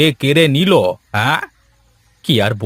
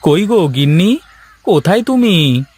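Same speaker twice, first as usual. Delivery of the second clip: calling out; 5 semitones higher than usual. Acted. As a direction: shout across the house to find her. Calling wife from outside.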